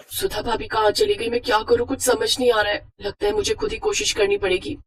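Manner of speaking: a nervous bride alone at the stove; anxious and alone. Acted. Bride panics alone in kitchen.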